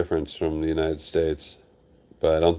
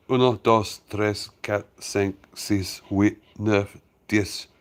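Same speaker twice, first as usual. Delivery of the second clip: mock French counting; 3 semitones higher, slower than usual. Shown as a demonstration. Proving to viewers he can count to ten, mock French. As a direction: reel off the numbers like a proud beginner. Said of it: "I can count to ten".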